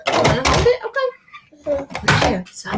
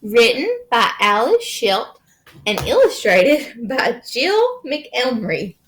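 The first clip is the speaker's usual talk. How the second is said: lively picture-book narration; reading to children. A narrator's reading. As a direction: read it to a small child with playful swings.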